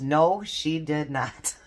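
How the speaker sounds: drawn-out, deliberate "No, she did not"; slow emphatic denial. Retold or imitated. Son answering his mother's question, slow emphatic no. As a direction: lay each word down slowly, firmly. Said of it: "He says".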